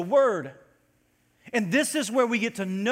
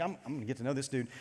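inner thought; 5 semitones lower, 9 dB quieter, faster than usual. Retold or imitated.

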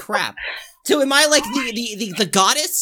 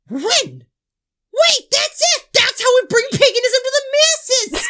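excited epiphany; 11 semitones higher, slower than usual. Acted. Host hits on how to bring paganism to the masses, excited. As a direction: cry it out as the big idea hits. Sudden idea of spreading paganism.

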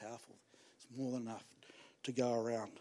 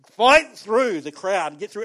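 preached push; 8 dB louder, slower than usual. Real, not acted. Preacher exhorting, building intensity.

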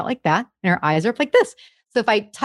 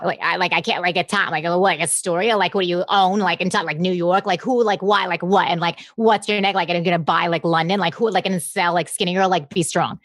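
lower, halting run of unfinished questions; Bethany Frankel impression; 4 semitones lower than usual. Impressionist does Bethany Frankel's rambling unfinished sentences. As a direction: rattle off broken half-sentences like Bethany. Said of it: "if I'm doing Bethany Frankel".

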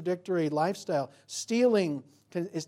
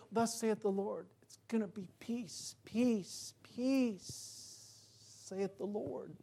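high, soft, drawn-out peace peace; cartoon soothing prophet; 5 semitones higher, 6 dB quieter, much slower than usual. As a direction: croon false comfort like a fake prophet. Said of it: "the cartoon version".

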